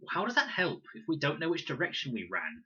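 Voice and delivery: high, loud impatient snap; snapped. A narrator's reading. Con snapping at Fred, high and loud. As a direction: bite back at him. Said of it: "snapped Con".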